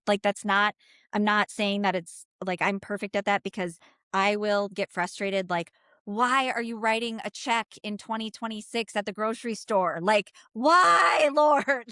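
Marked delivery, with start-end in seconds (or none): 6.1-11.9 incredulous exasperation; exasperated. Retold or imitated. Frustrated at check writer.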